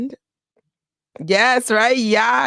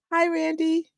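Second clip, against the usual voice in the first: giggly high hello, then soft name; flirty hi; 9 semitones higher, 4 dB quieter than usual. Real, not acted. Fan teasing her crush on stream, giggly flirty hello. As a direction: tease a crush playfully.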